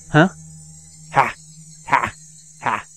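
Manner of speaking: rough panting breaths; rough exhale. Acted. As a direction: huff out hard after the outburst. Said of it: "I exhaled roughly".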